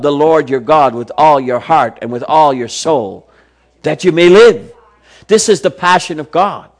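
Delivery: rising, fervent Bible reading; preacher reading scripture with fervour; impassioned scripture reading. Acted. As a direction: build the verses with growing passion.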